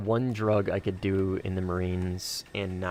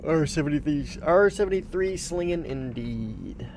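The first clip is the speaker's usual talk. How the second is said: excited callout; 7 semitones higher, 3 dB louder than usual. Real, not acted. Calling out a player tag.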